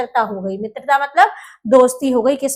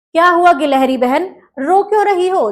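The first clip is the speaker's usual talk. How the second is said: higher-pitched, lightly acted concern; concerned question; 4 semitones higher, 4 dB louder than usual. Bird asking a crying squirrel why she weeps, concerned. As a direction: ask with mild storybook concern.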